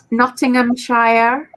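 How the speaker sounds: slow Cornish burr on the shire; lightly put-on Cornish accent. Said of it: "I don't know why I'm saying it in this Cornish accent".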